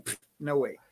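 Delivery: scoffing. Retold or imitated. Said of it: "the brain knows it's saying".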